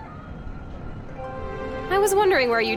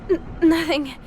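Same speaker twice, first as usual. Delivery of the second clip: catching her breath in pain; pained stammer; 3 semitones higher, 3 dB louder than usual. Acted. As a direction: stammer through a sharp pain.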